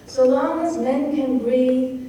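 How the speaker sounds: slow, measured line of poetry; measured verse recitation. Shown as a demonstration. Teacher voicing what Shakespeare told her, measured recitation. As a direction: recite it slowly, giving each phrase room.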